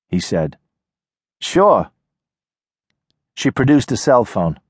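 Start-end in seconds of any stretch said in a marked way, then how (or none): 1.4-1.9 put-on higher, guarded young woman; wary girl calling from a porch; tough city girl. Nadia voiced by narrator.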